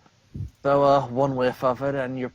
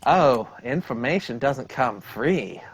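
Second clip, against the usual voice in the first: slow drawl sliding into Southern belle; attempted Eddie, turning Southern belle; slower than usual. Lemur asking payment for information, Southern belle drawl. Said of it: "I'm trying to do an Eddie voice, and I keep turning into a Southern Belle".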